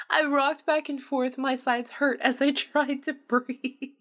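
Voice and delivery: slow, breathless, laughing speech; laughing through words. Acted. Vanessa narrating through her laughter at Jeff, breathless. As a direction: talk while still cracking up. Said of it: "I busted out laughing".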